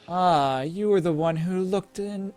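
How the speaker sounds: slow, eerie spirit voice; drawn-out, otherworldly possessed whisper-talk; grinding stone statue. Acted. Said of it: "looks at you and says".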